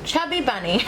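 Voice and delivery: laughing through a stuffed mouth; cheeks stuffed full. Real, not acted. Chubby Bunny marshmallow challenge.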